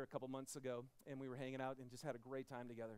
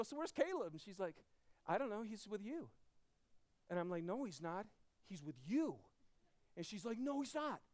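retold alarm; 4 semitones higher, 3 dB louder than usual. Retold alarmed exchange with wife.

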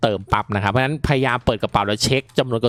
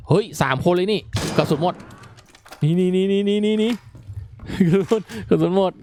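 panicked excitement; 7 semitones higher than usual. Real, not acted. Gamer suddenly facing three enemies with an empty gun, panicking. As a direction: blurt it out in a panic, voice jumping up.

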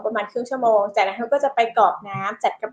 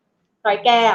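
"ร้อยแก้ว" said once, firm and a bit louder, falling at the end; stern warning call; 4 dB louder, much slower than usual. Shown as a demonstration. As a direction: call his name as a final warning. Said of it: "พูดคำนี้เลยค่ะ". (เรียกชื่อ "ร้อยแก้ว" ด้วยน้ำเสียงดุ เสียงลงท้ายต่ำ)

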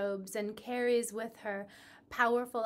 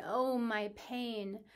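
slow, drawn-out mild cry of pain; a touch of anguish, stretched slowly; crying out in agony; slower than usual. Acted. Ereshkigal cries her pain to the mourners, slow mild wail. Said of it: "She cries out in agony".

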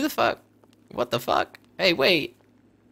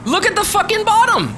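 high, loud outburst; exasperated shout; 5 dB louder than usual. Real, not acted. Telling his friend to look, loud and dismayed. Shocked at mission list.

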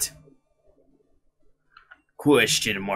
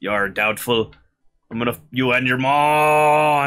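boastful rival voice; 5 semitones higher, 6 dB louder than usual. Acted.

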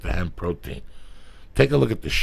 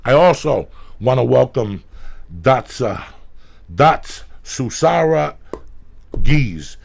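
hyped shout-out; 4 semitones higher, 8 dB louder, slower than usual. Acted. Hyped sponsor welcome.

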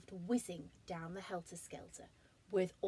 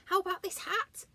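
bear voice; 12 semitones higher, 7 dB louder than usual. Acted. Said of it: "said Alan".

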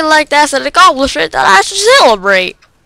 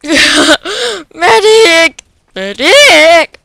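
man down shout; 4 semitones higher, much slower than usual. Real, not acted. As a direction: yell for a medic. Calling for a medic in game.

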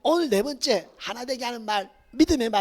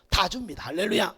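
ordinary talk, nothing marked

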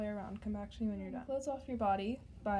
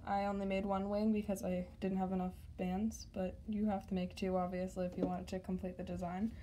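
losing voice; 3 semitones lower than usual. Real, not acted. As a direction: voice wearing out, slightly strained. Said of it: "I'm losing my voice".

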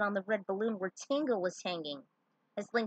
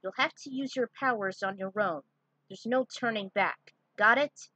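stern commander; 2 semitones higher, 5 dB louder than usual. Acted. Commander briefs fighters.

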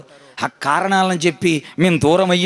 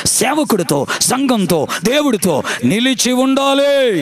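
building sermon exhortation. Real, not acted. Preacher builds exhortation to climax.

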